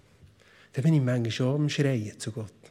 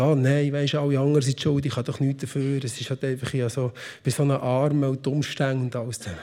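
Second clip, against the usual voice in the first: whiny complaining; 3 semitones lower than usual. Retold or imitated. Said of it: "jammern und sagen".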